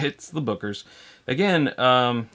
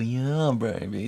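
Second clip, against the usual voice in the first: Austin Powers; slower than usual. Shown as a demonstration. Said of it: "without doing the typical".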